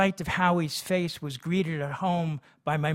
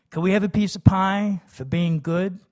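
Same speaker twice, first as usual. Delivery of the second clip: higher, louder hopeful ask; eager kid; 5 semitones higher, 8 dB louder than usual. A narrator's reading. Kids begging father for pie, high and loud. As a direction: plead sweetly for a treat.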